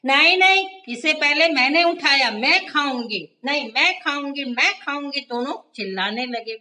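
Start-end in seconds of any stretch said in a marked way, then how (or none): 0.1-5.2 high, loud squealing no no; shouting. A narrator's reading. Tiny shouting at Mini over the bread, loud and high. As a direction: shriek it like a furious little mouse. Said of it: "तभी टिन्नी चिल्लाई".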